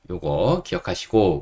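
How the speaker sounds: ordinary talk, nothing marked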